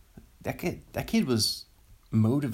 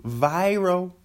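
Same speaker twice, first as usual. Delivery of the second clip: higher-pitched mock-excited catchword; excited mimicry; 7 semitones higher, 4 dB louder than usual. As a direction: imitate someone getting really excited. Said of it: "when someone gets really excited and they go".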